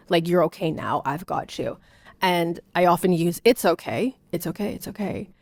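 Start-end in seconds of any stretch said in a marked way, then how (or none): 0.3-1.8 put-on comforting toddler. Shown as a demonstration. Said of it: "when he's upset and I've, like, I've got him". 3.4-5.3 calm him while fixing it; soothing toddler. Shown as a demonstration. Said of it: "when I know what he wants and he's upset".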